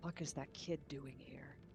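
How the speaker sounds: muttered quietly under the breath. Reacting in character to a kid's arrival: muttered under the breath. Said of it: "So I say under my breath".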